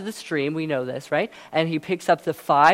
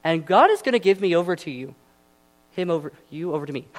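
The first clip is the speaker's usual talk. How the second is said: tongue-twisted line; faster than usual. Shown as a demonstration. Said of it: "That's hard to say".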